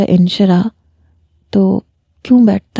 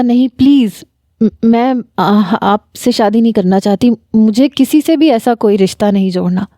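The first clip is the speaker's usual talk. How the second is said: hesitant refusal. Acted. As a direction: falter and restart, as if caught off guard. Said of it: "میری ہچکچاہٹ دیکھ کے". (ہچکچاتے ہوئے انکار)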